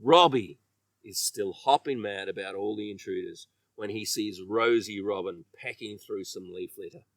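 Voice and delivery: ordinary delivery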